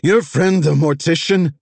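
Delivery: high, loud spiteful yell; shouting. Acted. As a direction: shout the threat after her. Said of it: "Vess shouted".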